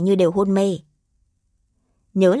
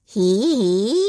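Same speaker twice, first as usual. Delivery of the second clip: pleased horse noise. A narrator's reading. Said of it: "vẻ mặt vui vẻ mỉm cười".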